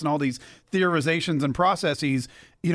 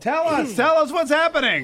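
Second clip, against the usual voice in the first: higher, urgent, keen to hear; eager; 8 semitones higher than usual. Real, not acted. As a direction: beg for the news excitedly. Host eager for the forecast.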